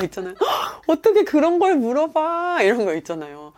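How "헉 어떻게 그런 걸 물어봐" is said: gasp, then loud high drawn-out question; hammed-up scandalized disbelief; mock shock. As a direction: shame them with exaggerated astonishment. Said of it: "당신 무례해라는 거 알려주기 위해서는".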